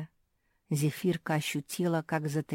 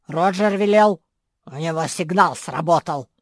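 hoarse bass dragon; 11 dB louder than usual. A narrator's reading. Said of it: "ответил хриплый бас".

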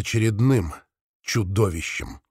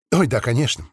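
smiling. Acted. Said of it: "улыбнулась она".

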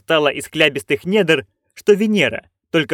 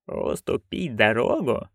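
questioning; 3 semitones lower, 7 dB quieter, slower than usual. A narrator's reading. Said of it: "переспросила матушка".

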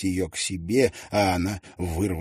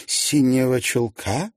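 haughty; 6 semitones higher, 5 dB louder, slower than usual. A narrator's reading. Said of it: "высокомерно воскликнула она".

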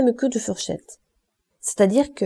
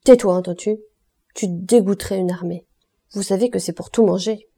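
furieuse; 3 dB louder than usual. Acted. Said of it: "plus furieuse que les autres".

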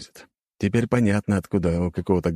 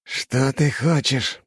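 slow, higher-pitched angry question; seething hiss; 7 semitones higher, much slower than usual. A narrator's reading. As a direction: draw out each word, seething. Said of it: "прошипел тот".

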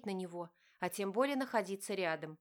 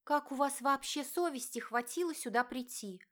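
higher, raised, outraged voice; indignant exclamation; 5 semitones higher than usual. A narrator's reading. Diana confronts her father and stepmother, outraged. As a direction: fling the question at them in outrage. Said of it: "воскликнула Диана".

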